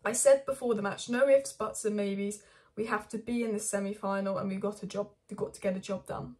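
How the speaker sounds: loud, firm, no-nonsense; firm insistent quote. Retold or imitated. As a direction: deliver it like a demanding manager. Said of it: "Eric Ten Hag said this".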